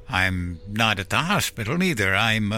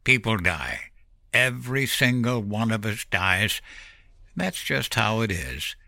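irritated snap; 5 semitones higher than usual. A narrator's reading. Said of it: "irritated breath and snapped".

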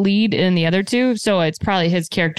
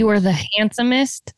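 mock king line. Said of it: "It said handsomest".

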